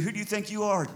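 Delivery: mild, paraphrased accusation; lightly acted challenge from a scornful brother; restrained accusing question. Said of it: "His brother was accusing him".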